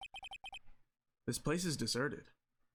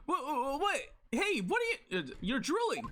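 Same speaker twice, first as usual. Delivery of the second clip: put-on higher, pushy girl demanding a name; higher girlish sidekick, challenging; 11 semitones higher than usual. Maya suspiciously challenging the man in the dressing room. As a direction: square up to the stranger, childlike.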